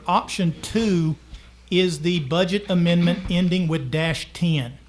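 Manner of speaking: "option two" said slowly, each word clear; slow and deliberate. Shown as a demonstration. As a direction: drag out "option two" for note-taking. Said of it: "if you wanna make a note on your paper".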